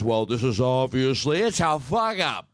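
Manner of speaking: mock Kennedy. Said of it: "I'll sound like J F Kennedy".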